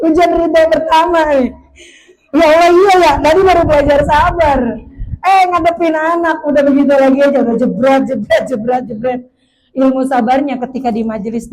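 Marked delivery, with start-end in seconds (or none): 2.3-9.2 mock exasperation. Parent back home facing the child after learning patience, mock exasperated. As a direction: play up the fed-up parent, then tail off.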